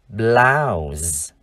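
"blouse" drawn out, ending in a buzzed z; voiced z ending. Shown as a demonstration. Teacher shows how to read the noun, "blouse" ending in z. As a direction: say "blouse" slowly with final z. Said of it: "Âm cuối là âm Z".

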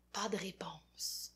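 hushed, unvoiced aside; whisper. A narrator's reading. Storyteller whispering to the child listener. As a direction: breathe it like a secret.

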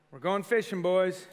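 loud, bright call down the hall; cheery wake-up call. Retold or imitated. Dad waking his sons for a fishing trip, loud and cheery. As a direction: rouse sleeping boys at dawn.

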